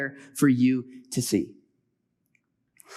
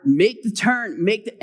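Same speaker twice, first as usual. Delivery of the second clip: higher, urgent mock yell; half-yelled warning, raised in pitch; retold louder yelling; 5 semitones higher, 4 dB louder than usual. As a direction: re-enact calling out a repeated warning, cut off. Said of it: "my voice gets louder and louder".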